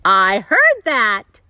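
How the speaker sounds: a slow, loud, cross retort; a wife catching her husband's joke, clearly annoyed; stormy. Acted. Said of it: "Missus Rogers stormed in".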